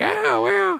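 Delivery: put-on creaky old prospector voice. Mocking the other speaker in a creaky old prospector voice. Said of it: "you kinda sound like a creaky old prospector".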